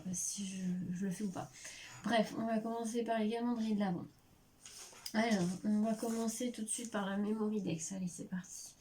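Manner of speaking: blocked nose. Real, not acted. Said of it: "Je suis désolée si je renifle".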